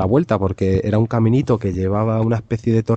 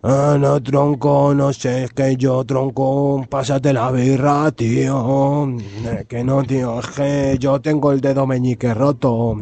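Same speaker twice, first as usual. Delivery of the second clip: put-on lazy beach kid; 4 semitones higher, slower than usual. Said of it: "como diciendo".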